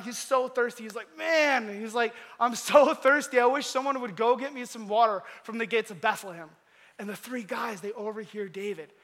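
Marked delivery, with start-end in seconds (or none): 1.2-1.8 raised, louder mock cry; crying out in thirst. Preacher voices thirsty King David, crying out. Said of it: "he's, like, crying out". 2.4-6.5 mildly acted thirsty cry, louder at first; a parched plea, starting raised then easing; crying out in thirst. Preacher voices thirsty King David, crying out. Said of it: "and he's crying out".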